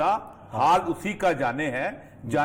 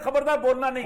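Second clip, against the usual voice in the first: raised-pitch cautionary quote; acted warning; 6 semitones higher than usual. Pundit voicing bureaucrats warning each other off criticism, urgent warning.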